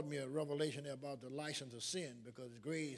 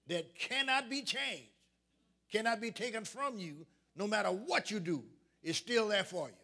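emphatic preaching; 3 semitones higher, 5 dB louder than usual. Real, not acted. Preacher urging the congregation to understand grace, emphatic preaching. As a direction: preach it firmly, leaning on each phrase.

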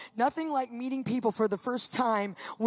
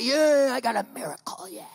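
happy cheer. Retold or imitated. Patient left sitting there happy, gleeful cheer. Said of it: "I'm sitting there happy".

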